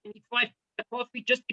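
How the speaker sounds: sarcastic complaint fading to a near mumble; mock bored groan. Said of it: "We gotta learn it".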